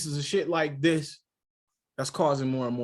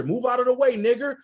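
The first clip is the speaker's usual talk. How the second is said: imitating a rude white woman, raised; raised, sneering older woman's voice; mock rude old woman; 9 semitones higher, 7 dB louder than usual. A man mimics a rude old woman ordering him aside, sneering. Woman's insult retold in story.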